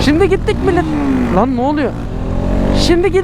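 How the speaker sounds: talking over rough riding; on a bumpy road. Real, not acted. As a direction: voice jolted by the bumps. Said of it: "Lan konuşamıyorum".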